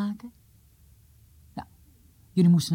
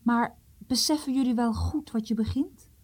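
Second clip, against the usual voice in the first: grave hushed whisper, leaning in; serious whisper; 5 semitones higher than usual. Acted. Tors warns the friends gravely, in a whisper. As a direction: whisper it as an earnest warning. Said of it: "terwijl hij ze ernstig aankeek".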